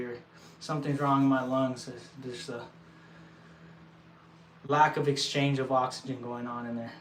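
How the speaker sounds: normal talking voice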